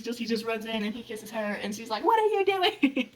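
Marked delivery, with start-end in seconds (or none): 2.0-3.1 high, drawn-out mock shock; slow squeal of disbelief, imitating the startled girl; shocked outcry. Retelling her shock at the kiss.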